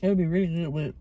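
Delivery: talking while chewing; words round a mouthful of food; mouth full. Real, not acted. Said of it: "I'm chewing my mouth open".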